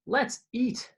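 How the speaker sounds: high, eager little cry; delighted cluck. A narrator's reading. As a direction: chirp it out with delight. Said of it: "Hansel clucked with delight".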